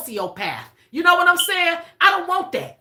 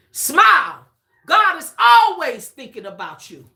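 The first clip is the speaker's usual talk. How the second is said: louder, pressed repeat of the message; emphatic repeat; 3 dB louder than usual. Shown as a demonstration. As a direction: drive the message home to the viewers. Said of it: "That's for the collective".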